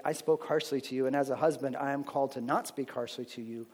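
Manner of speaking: quiet, earnest confession to a wife; sincere apology. Shown as a demonstration. Husband confessing to his wife, quiet and sincere. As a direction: soften into a humble request for forgiveness. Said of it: "So we use Scripture. We say".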